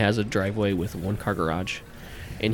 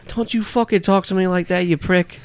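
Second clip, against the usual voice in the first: loud, much higher shout; furious yell; 9 semitones higher, 5 dB louder than usual. Acted. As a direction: snarl back at the driver. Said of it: "you hear".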